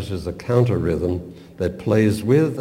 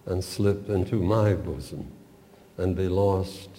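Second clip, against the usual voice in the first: expressive poem reading. Acted. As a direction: read the love poem tenderly, letting lines fall. Reads the whole poem aloud.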